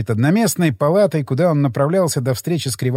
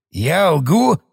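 menacing. A narrator's reading. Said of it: "угрожающе спросил он".

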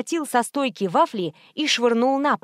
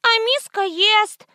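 put-on high, slow, hurt child's whine; little girl whining about her brother; whiny child; 11 semitones higher, 4 dB louder, slower than usual. A narrator's reading. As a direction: whimper it like an offended toddler. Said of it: "обиженно захныкал ребёнок".

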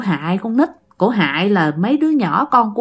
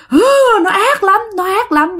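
mock crying; 10 semitones higher than usual. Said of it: "Bắt đầu khóc".

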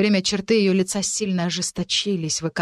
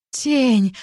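higher, louder glad cry of a name; happy surprised greeting; joyful; 6 semitones higher, 5 dB louder than usual. Acted. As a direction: call out a friend's name in delight. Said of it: "обрадовалась Францезелин".

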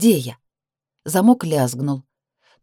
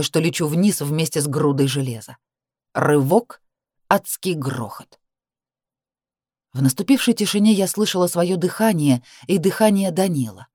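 plain reading voice

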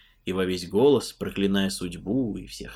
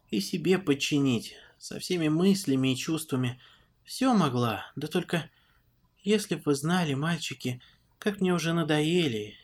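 a hint of an old elf, worn out; weary old elf woman; 5 semitones higher than usual. Lara's weary confession.

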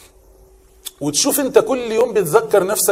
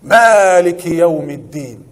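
slow, drawn-out recitation of the verse; Quran recitation; 4 dB louder, much slower than usual. Shown as a demonstration. Teacher reciting a verse for the class, slow and drawn out. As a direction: stretch each word like a reciter.

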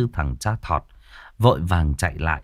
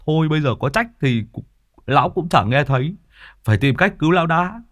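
a touch higher, impatient man; lightly voiced Tứ Béo; 8 semitones higher, 4 dB louder than usual. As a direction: cut in and push on. (giọng Tứ Béo hơi cao, sốt ruột)

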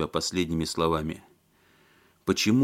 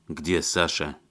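usual speaking voice

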